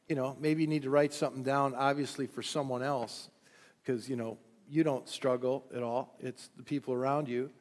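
dry, sarcastic aside. Real, not acted. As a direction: say it with a wink, tongue in cheek. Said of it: "that was sarcasm".

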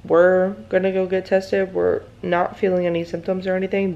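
groggy just-woke-up voice; sleepy morning voice. Real, not acted. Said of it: "like, my morning voice".

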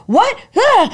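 high shocked yelp; loud rising what. Retold or imitated. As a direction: Rita hearing the news, shrieking. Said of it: "she's like".

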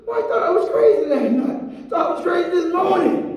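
laughing through the words. Real, not acted. Preacher telling of sleepless joy, laughing. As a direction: chuckle while admitting it. Laughing about being overjoyed.

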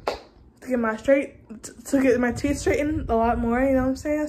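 talking with a retainer in; lisping around a retainer. Real, not acted. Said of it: "If I'm talking weird, sorry, 'cause I have my retainer in".

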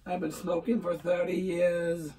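slow, rough smoker's voice; chain smoker voice. Acted. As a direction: play an old chain smoker, slowly. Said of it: "he sounded like a chain smoker".

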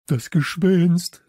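high, loud, drawn-out cry; called out. A narrator's reading. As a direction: cry out that you've spotted it. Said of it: "rief Samson".

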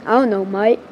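put-on kid's light Australian voice; Australian accent. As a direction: shrug it off in an Aussie accent. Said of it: "why is he Australian?".

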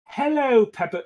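tentative first go at a Santa call; Santa greeting. Acted. Santa greeting Peppa, high but restrained call. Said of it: "cries Santa".

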